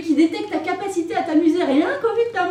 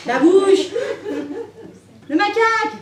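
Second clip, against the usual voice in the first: mocking callout; 4 semitones higher than usual. Mocking the characters' names.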